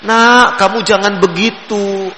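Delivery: put-on a tender reminder to a child; a slow, kind "Nak, kamu jangan begitu"; gentle scolding. Shown as a demonstration. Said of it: "warna kelemah lembutannya itu nampak".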